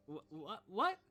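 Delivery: high, loud rising "what?"; shocked. Acted. Abigail shocked to hear of the danger, high and loud. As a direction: whirl round in disbelief. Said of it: "Abigail turns around and says".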